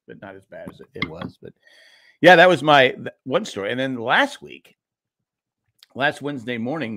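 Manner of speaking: ordinary talk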